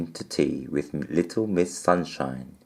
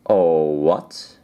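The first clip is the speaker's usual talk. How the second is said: sniffed; 5 dB louder than usual. Acted. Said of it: "he sniffed".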